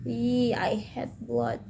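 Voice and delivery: soft, slow grossed-out aside; quiet slow squeamish aside; disgusted murmur. Real, not acted. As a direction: mutter it in disgust. Reader reacts to blood.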